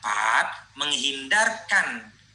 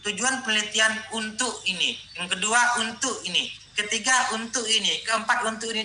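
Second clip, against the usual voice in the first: higher, sing-song recital of a dull list; mock repetitive listing; 4 semitones higher than usual. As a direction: parody a tediously repetitive proposal. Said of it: "Tidak menarik kalimatnya". (menirukan daftar yang membosankan)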